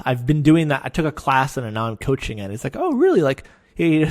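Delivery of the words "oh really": high, loud mock-impressed "Oh, really?"; high, loud sarcastic reply. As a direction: drip sarcasm, pretend to be impressed. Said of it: "very sarcastic".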